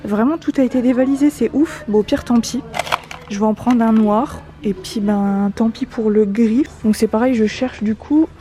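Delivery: muffled behind a mask; speaking through a mask; through a face mask. Real, not acted. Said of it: "J'espère que vous m'entendez bien avec le masque".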